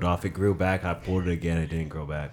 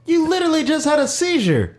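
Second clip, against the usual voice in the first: excited. Real, not acted. Teasing friend loudly.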